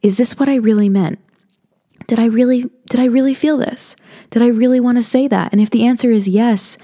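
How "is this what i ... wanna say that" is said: higher searching questions; questioning self. Pretend. Self-doubt asked inward, higher and searching. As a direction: ask yourself higher, doubting. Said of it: "come into your heart and ask".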